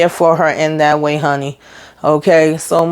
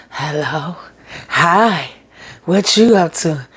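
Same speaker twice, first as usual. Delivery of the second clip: sweet phone hello; slower than usual. Retold or imitated. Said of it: "three different freaking emotions within a second".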